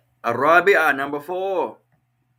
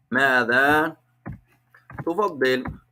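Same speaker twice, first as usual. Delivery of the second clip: 1 split slowly. Shown as a demonstration. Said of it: "word by word".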